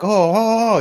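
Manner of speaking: high mock moaning; rising dazed cries of horror, put on; losing it. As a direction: lightly imitate a man out of his mind. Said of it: "freaking totally lost it".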